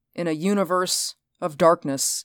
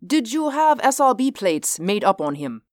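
commander voice; 6 semitones higher than usual. Acted. Reinhardt voice held.

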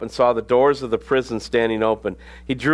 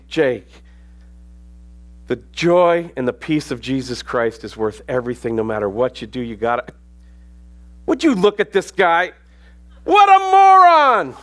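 calm advice snapping into a shout at a driver; mock road rage, yelling at the driver; road rage outburst; 3 dB louder than usual. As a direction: preach peace, then explode at the other car. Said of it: "true story of him and I driving".

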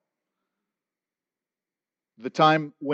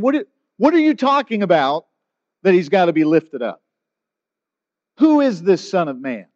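incredulous crowd; 3 dB louder than usual. Retold or imitated. Crowd confused, voiced.

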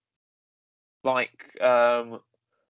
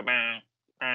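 two short imitated penguin bleats; penguin noise. Podcaster showing co-host what penguins do, penguin noise. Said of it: "the penguins don't talk either".

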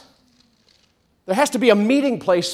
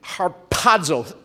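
"harpazo" with the stress on PA; har-PA-zo, teaching "harpazo" to a crowd; accent on second syllable; much slower than usual. Shown as a demonstration. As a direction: lean on the middle syllable of "harpazo". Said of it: "Accent on the second syllable".

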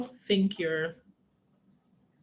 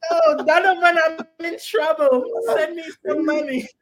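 put-on high, loud, pleading girl voice; sweet pretty girl voice; 9 semitones higher, 6 dB louder than usual. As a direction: play a sweet-voiced girl begging for money. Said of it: "pretty girl with a sweet voice".

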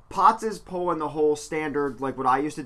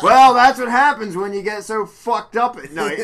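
snarky; 6 semitones higher, 10 dB louder, slower than usual. Retold or imitated. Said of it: "snarky comments".

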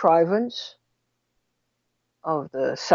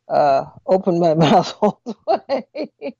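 laughing. Real, not acted. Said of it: "if I sound a little funny".

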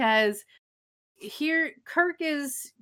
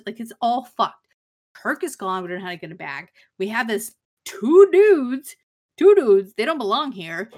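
rising mock rant, louder on two dudes; angry rant; 5 dB louder than usual. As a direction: Bones blowing up at Spock, half-hearted fury. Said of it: "he's really mad at Spock".

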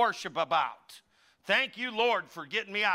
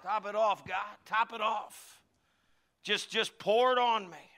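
call and response prayer. Acted. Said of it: "Say it with me".

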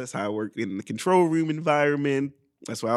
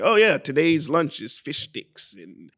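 news anchor voice. Retold or imitated. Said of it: "be the anchor and say".

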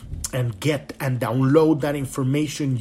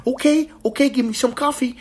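groggy agreeing; 9 semitones higher, faster than usual. Retold or imitated. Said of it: "I'm like".

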